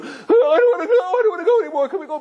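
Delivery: high, mock crying whine; whining kids. Kids begging Abba to turn back, mock crying whine. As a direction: wail like a disappointed child. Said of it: "they were crying".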